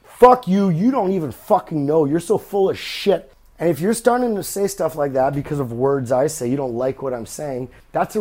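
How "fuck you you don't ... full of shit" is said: louder mock heckler rant; mock angry listener. Host voicing an angry listener, louder mock outburst. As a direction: spit it out as an offended fan. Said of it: "this could be about any topic".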